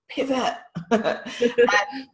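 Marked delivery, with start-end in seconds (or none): 0.1-0.5 Pivot with the final T sounded crisply; clear T in pivot. Shown as a demonstration. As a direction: say Pivot and pronounce the T. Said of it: "I sometimes forget to pronounce the T".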